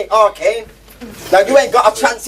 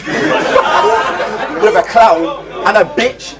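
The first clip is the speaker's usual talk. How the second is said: very slow, dragged-out stuttering lisp; mocking stutter and lisp; 3 semitones higher, much slower than usual. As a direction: drag each word out like a bad stutter. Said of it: "it sounds like this".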